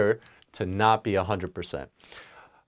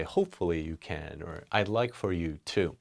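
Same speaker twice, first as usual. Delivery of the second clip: softer, lower polite phrasing; 5 semitones lower, 7 dB quieter than usual. Shown as a demonstration. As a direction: say it gently and quietly. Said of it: "create a more softer tone".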